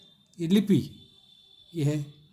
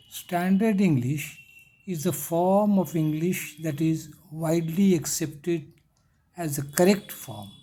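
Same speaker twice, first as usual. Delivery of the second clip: reads the English line very slowly for notes; slow dictation; much slower than usual. Shown as a demonstration. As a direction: dictate each word slowly and clearly. Teacher dictating English text slowly.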